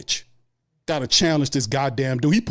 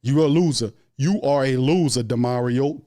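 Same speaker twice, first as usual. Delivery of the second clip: tough love. Pretend. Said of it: "tough love says".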